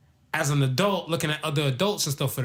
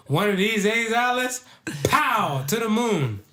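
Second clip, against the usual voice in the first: Ralph Kramden impression; 7 semitones higher, 3 dB louder, slower than usual.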